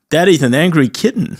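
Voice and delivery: comic put-on accent. Customer scolding the clumsy waiter, comic babyish accent. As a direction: play a lightly pouting oddball. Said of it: "I've been saying that accent all weekend".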